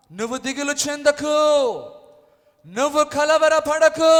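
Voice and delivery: loud, high, urgent shout of comfort; bold proclamation. Acted. Pastor shouting God's comfort to the congregation. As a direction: declare it to the whole room.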